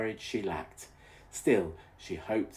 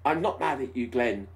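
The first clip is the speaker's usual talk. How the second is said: lame; 5 semitones higher, 5 dB louder than usual. Acted. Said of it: "she repeated lamely".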